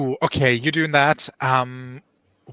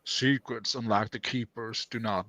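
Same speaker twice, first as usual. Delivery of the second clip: softer, lower Southern storytelling; attempted Southern accent; 3 semitones lower, 6 dB quieter, slower than usual. Reader continuing the story for the group, attempted Southern accent. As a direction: read it low with a Southern accent.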